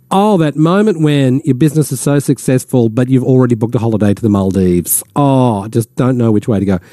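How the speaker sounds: mildly put-on weary boasting; lightly mock a boast dressed up as moaning; humblebrag as complaint. Radio host mimicking a Facebook humble brag, mock complaining. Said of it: "this sort of couch it as a complaint".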